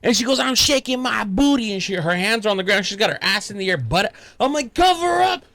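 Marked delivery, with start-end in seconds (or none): 0.4-1.7 high singsong child imitation; gleeful little daughter. Daughter showing off to dad, gleeful child voice. 4.7-5.4 high, urgent retold order; mock alarm. Flustered dad to his daughter, mock-alarmed command.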